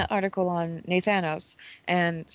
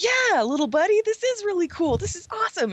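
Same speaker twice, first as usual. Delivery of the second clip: much higher, humoring tone; mock-sweet reply; 11 semitones higher than usual. Player humoring the little buddy, mock-sweet. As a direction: indulge him with fake enthusiasm. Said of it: "you're like".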